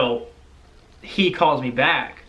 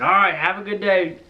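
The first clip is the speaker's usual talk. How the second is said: higher-pitched dad signing off; Barry; 5 semitones higher than usual. Retold or imitated. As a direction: imitate a father's friendly phone goodbye. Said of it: "And he said".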